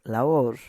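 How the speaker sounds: "Laor" with weight on the final "or"; stressed syllable. Shown as a demonstration. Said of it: "emphasis is right here".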